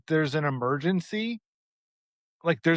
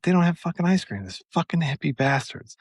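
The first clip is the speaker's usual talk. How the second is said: annoyed cursing; 3 semitones higher than usual. Retold or imitated. Cursing the store.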